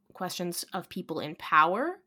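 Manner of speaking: rising at the end of power; uptalk. Real, not acted. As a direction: power lifted up like a question. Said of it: "I just did it there".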